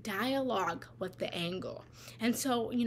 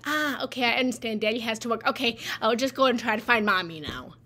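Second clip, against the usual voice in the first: put-on understanding child; 7 dB louder, faster than usual. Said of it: "response to that as a child would have been".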